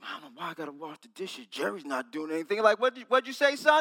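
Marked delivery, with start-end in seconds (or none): 0.0-2.6 muttered, much quieter and lower. Retelling being told by a parent to wash the dishes, muttering under his breath. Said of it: "I was muttering, mumbling under my breath".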